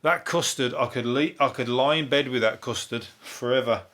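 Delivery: lightly hammed-up cheesy food presenter; a hint of a smarmy telly chef savouring custard; mock-seductive food line, barely voiced. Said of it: "your cheesy, like, food lines".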